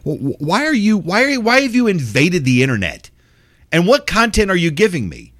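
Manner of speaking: high disbelieving outburst; incredulous mock outrage. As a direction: play baffled outrage at the internet. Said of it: "people like me, go".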